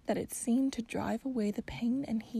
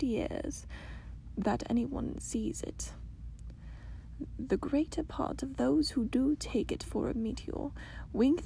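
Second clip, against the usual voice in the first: put-on soft old grandmother; 2 semitones higher, 3 dB quieter than usual. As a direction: confide like a gentle old lady. Grandmother tells secret softly.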